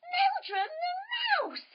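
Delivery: high, slow, stretched-out cry of alarm; dramatic reveal. Acted. Storyteller gasping out the mouse's name to the children. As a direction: announce the villain with mock horror.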